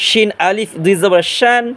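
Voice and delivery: শান with a hushing sh from mid-tongue; mid-tongue শিন. Shown as a demonstration. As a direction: spread the sh of শিন off the middle of the tongue. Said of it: "শিন, এটা জিহ্বার মাঝখান".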